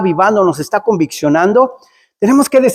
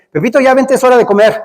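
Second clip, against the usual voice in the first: higher-pitched, lightly voiced mum calling; mother calling child; 5 semitones higher than usual. Mamá calls Pepito to the table, imitated motherly call. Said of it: "la mamá le dice".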